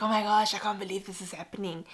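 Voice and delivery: quick, mildly excited gasp of disbelief; retold excitement. Mum retelling the day she found out, mildly excited. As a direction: retell a burst of happy disbelief. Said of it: "I was excited".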